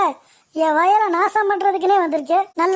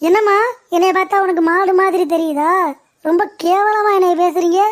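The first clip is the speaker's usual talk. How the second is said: offended; 3 dB louder than usual. Acted. Landowner offended by grass offer.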